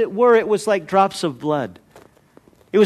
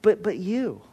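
desperate prayer; 3 semitones higher than usual. Retold or imitated. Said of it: "where I'm just saying".

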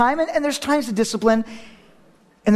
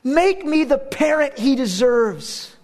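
weeping prayer; 4 semitones higher, much slower than usual. Retold or imitated. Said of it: "I began to weep saying".

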